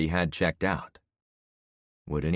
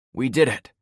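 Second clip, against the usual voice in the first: relieved exhale; 7 semitones higher, 7 dB louder than usual. A narrator's reading. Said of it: "I exhaled in relief".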